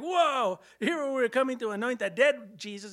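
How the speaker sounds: high, loud whoa; acted astonishment. Women who came to anoint dead Jesus, astonished.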